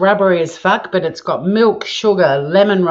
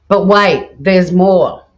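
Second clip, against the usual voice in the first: louder salesman "but wait"; infomercial voice; 4 dB louder, slower than usual. Pretend. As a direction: announce it like a TV ad. Infomercial catchphrase.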